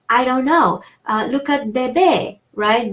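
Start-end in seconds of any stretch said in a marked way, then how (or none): 1.7-2.4 bébé with the final é a little longer; stress on second syllable. Shown as a demonstration. French teacher showing word stress, final syllable lengthened. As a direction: lean on the last syllable of bébé. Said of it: "second A makes that one a little longer".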